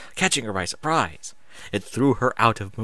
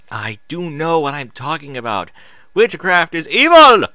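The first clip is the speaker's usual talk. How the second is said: stern; 5 semitones higher, 9 dB louder than usual. Acted. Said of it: "Celestia again said sternly".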